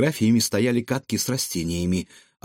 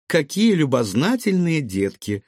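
higher, lilting delighted exclamation; smiling grandmother; 6 semitones higher, 3 dB louder than usual. Acted. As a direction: coo through a smile at children. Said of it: "улыбнулась бабушка Марина".

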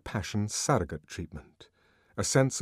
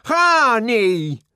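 loud curse; 13 dB louder than usual. Acted. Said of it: "he added as an afterthought".

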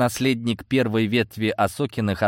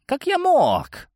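high, slow imploring plea; desperate uncle pleading; slower than usual. Acted. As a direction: beg for mercy. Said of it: "взмолился".

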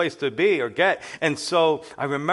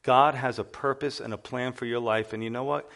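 loving but firm; 2 semitones lower than usual. Retold or imitated. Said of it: "in a loving but firm way".

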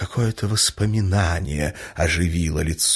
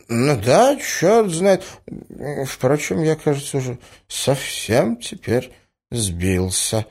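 confused; 8 semitones higher, slower than usual. A narrator's reading. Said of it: "проговорил князь, вращая кругом беспокойные взгляды".

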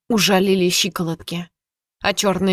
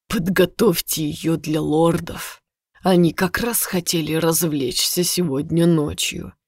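cold tyrant. Acted. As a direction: savour the cruelty slowly. Tyrant orders cruel punishment.

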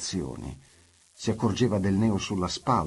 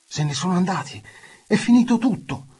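high, loud calls from outside the cave; shouting from outside; 12 semitones higher, 8 dB louder than usual. Acted. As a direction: call out triumphantly from afar.

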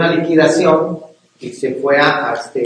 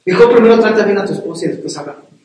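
stern mock rebuke, higher and quick; God scolding; 3 semitones higher than usual. God silencing a praying husband, stern hushing. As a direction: shush him like an annoyed father. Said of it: "Y Dios te dice".

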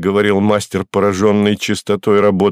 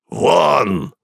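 shouted order; 5 semitones higher than usual. Acted. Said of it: "И крикнул".

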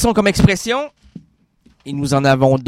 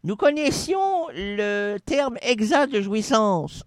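ghost voice; 6 semitones higher, 7 dB quieter than usual. Acted. Spirit explains.

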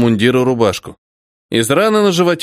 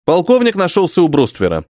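ordinary delivery

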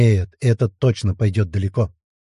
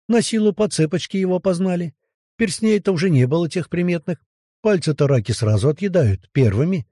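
eager, higher, talking in a rush; lively salesman pitch; 5 semitones higher than usual. Acted. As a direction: sell it like a travelling salesman. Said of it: "Убедительно и живо, как коми-вояжёр". (убедительно и живо, как коммивояжёр)

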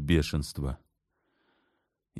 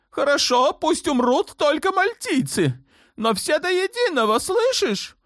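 put-on a shrill-free but very high, raging young sultan; 4 dB louder than usual. A narrator's reading. Sultan demanding war on Malta from his mother, high raging voice. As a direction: play the spoiled sultan demanding vengeance, much higher.

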